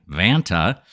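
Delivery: Vanta with a broad flat American a, said low; deep American accent. Shown as a demonstration. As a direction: lean into the American twang on Vanta. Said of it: "my deepest American accent on I can".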